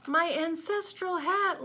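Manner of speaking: high, loud, slow scream of horror. A narrator's reading. Lady screaming as bunnies eat her hat, loud and high. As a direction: shriek it as the hat is eaten. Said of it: "Lady Fitztulip screamed".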